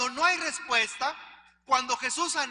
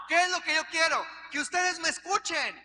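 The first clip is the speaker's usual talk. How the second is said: raised, pushed preacher's voice, a little higher; preacher's shout; 4 semitones higher than usual. Shown as a demonstration. Preacher raising his voice to show why people shout. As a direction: call out so the whole church hears. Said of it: "ahorita que estoy gritando".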